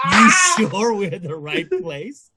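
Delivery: scared friend in the wrong neighbourhood, mock panic. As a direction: freak out in mock alarm. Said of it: "us for freaks the fuck out".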